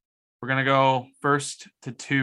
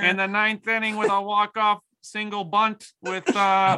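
sportscaster voice; 9 semitones higher than usual. Pretend. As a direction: call the play like a hyped sports anchor. Sportscaster bit, the speaker with sports.

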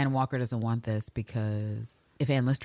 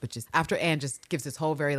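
ordinary talk, nothing marked

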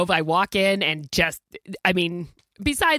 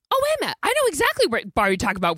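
quoting the excited waitress; 6 semitones higher, much faster than usual. Retold or imitated. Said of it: "this waitress was like".

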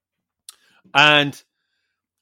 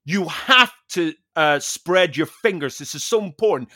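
slow, earnest mock-guru explanation; a hint of the instructor's preachy slowness; slower than usual. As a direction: draw it out like a solemn fitness guru. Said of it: "he was going".

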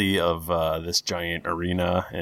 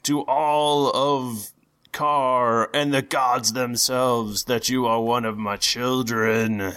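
booming thunder and wind; 5 semitones higher, slower than usual. Acted. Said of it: "a booming voice over the loudspeaker".

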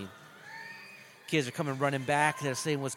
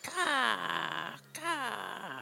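mock kung fu yell; 10 semitones higher, 5 dB quieter than usual. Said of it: "He's like".

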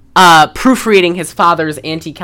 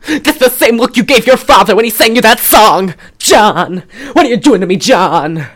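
near tears; 4 semitones higher, 3 dB louder than usual. Retold or imitated. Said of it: "she's like".

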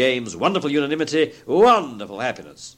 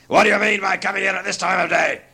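raised, gruff mock scolding; feigned growl; 7 semitones higher, 3 dB louder than usual. A narrator's reading. Scrooge scolding late Bob in his old voice, growling. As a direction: scold in a put-on miserly growl. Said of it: "growled Scrooge in his accustomed voice".

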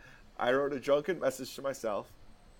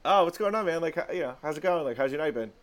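friendly greeting; 3 semitones higher, faster than usual. Retold or imitated. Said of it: "and I go".

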